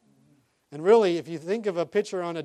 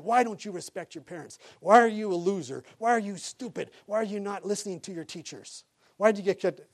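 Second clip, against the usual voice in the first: lightly acted Marine berating, pitched up; mild mock yell; 4 semitones higher than usual. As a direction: fire off accusing questions like an imitated drill sergeant. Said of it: "just yelling and screaming".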